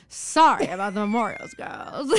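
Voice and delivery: mock gumshoe with a laugh creeping in; hammed-up old-timey cop; old-timey detective. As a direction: play a cigar-chomping detective. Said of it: "talking like an old-timey detective".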